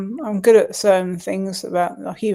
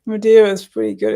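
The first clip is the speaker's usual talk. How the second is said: louder and quicker to be heard; louder repeat; 6 dB louder, faster than usual. Real, not acted. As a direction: repeat it louder and faster so they hear.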